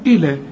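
إلى with one light L, not doubled; single open lam. Shown as a demonstration. Teacher contrasts it with illa, single open lam. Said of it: "لو مفتوحة تقول".

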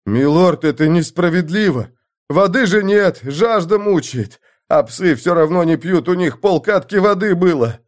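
высоко и громче, отчаянно оправдываясь; взмолись, сорвавшись на крик; отчаянная мольба. Acted. (лучник отчаянно молит лорда)

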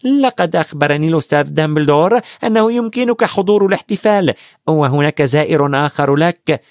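haughtily. Acted. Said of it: "قالت بأنفة".

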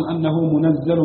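منزل as "munazzalun", with a doubled z; doubled zay. Shown as a demonstration. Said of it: "مشددا". (منزّل بتشديد الزاي)

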